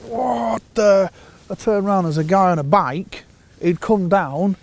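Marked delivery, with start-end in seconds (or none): 0.1-1.1 sudden high startled yelp, louder; startled what the. Retold or imitated. Angler startled by a sudden noise behind him, high yelp. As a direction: caught off guard mid-cast, much higher. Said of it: "I'm like".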